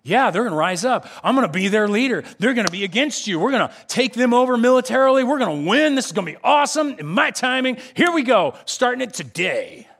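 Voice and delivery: hammed-up Moses hyping himself up; cocky excitement. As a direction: get carried away with your own plan. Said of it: "And Moses is going".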